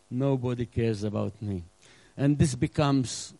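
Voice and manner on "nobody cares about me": mock self-pity. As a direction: whine "Nobody" lightly, half-joking. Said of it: "the world of self-pity".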